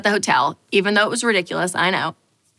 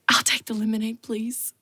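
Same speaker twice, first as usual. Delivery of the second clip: whispered, much softer order; meek whisper; 6 dB quieter than usual. Retold or imitated. Ordering lemonade from the waitress, a meek whisper. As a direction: shrink as you order. Meekly ordering cheap drink.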